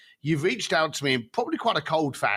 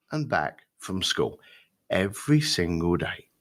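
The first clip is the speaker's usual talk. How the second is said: voice changed; 5 semitones lower than usual. Retold or imitated. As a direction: let the voice drop as the memory takes over. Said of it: "his voice changed, his tone changed".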